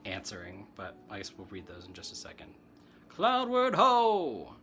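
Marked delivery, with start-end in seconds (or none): 3.1-4.5 high, slow excited shout-out; excited call. Real, not acted. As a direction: call the title out with delight. Calls out the show title.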